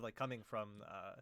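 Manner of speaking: ordinary talk, nothing marked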